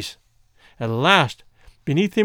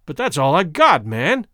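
crying out; 4 dB louder than usual. Acted. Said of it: "Womble cried out".

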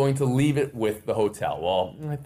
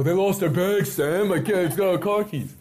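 high, loud exasperation; exasperated pleading; 8 semitones higher, 4 dB louder than usual. Retold or imitated. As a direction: plead your case to her. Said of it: "I go".

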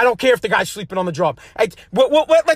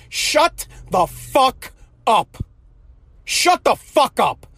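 slow blunt telling-off; much slower than usual. Pretend. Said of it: "I would go right on the television and I would say".

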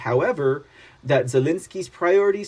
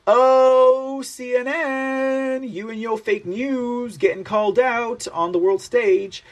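mocking taunt; 8 semitones higher, slower than usual. Real, not acted. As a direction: rub it in, mocking and triumphant. Taunting CNN over fake news.

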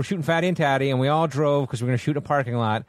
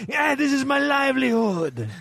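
high, drawn-out yell of protest; mock outraged shout; 10 semitones higher, slower than usual. Mock protest at screaming kid.

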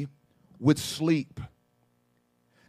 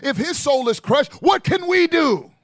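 rising panic. Retold or imitated. Panicked disciples' thoughts.

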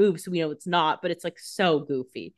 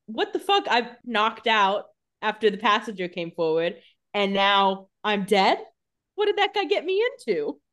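mock-indignant bewilderment; bewildered disbelief; 2 semitones higher than usual. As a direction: play baffled, pitch leaping at the start and end. Voicing Tyler learning he is dead.

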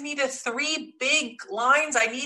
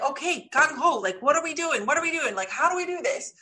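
higher, eager retold questions; imitated eagerness; 5 semitones higher than usual. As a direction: act out a fired-up audience. Voices audience fired up by story.

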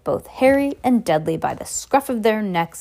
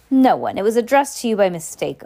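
short; 2 semitones higher, 4 dB louder than usual. Acted. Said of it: "Uncle Vernon said shortly".

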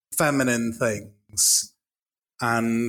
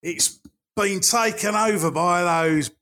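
put-on Cockney accent; 4 semitones higher than usual. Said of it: "who I'm now gonna be".

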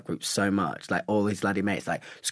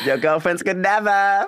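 put-on Your girlfriends could never, higher and louder, slow and savoring; loud sassy put-down; 11 semitones higher, 7 dB louder, slower than usual. Shown as a demonstration. Repeating his comeback for the hosts, loud and sassy. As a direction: deliver the burn again, bigger and slower. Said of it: "How about that?".

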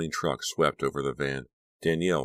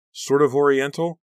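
tentative question; 11 semitones higher, 8 dB louder than usual. A narrator's reading.

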